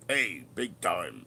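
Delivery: put-on "hey" stretched in a slow, swaggering Aussie accent; Aussie bloke, slow drawn-out "hey, big time". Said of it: "over bravado, over big, you know, Aussie guy".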